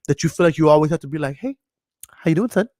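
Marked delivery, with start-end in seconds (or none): 1.3-2.7 coddling parent. Acted. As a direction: imitate a doting parent cooing over a child. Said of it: "I coddle my kids".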